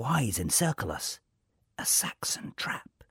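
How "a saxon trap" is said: hushed unvoiced whisper, slow. A narrator's reading. King whispering of a trap in the glade. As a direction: breathe it out as a secret warning. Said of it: "he whispers".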